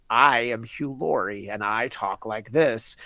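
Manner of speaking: a hint of a fake, placeless American accent; Hugh Laurie's American accent. Host mocking an actor's vague American accent, lightly. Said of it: "when I heard Hugh Laurie's American accent".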